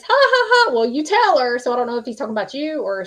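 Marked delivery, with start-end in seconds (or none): 0.0-1.6 high, loud, hearty ha-ha; channelling dad cracking up; a jolly laughing dad, teasing; laughing father. Retold or imitated. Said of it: "your daddy's, like, laughing".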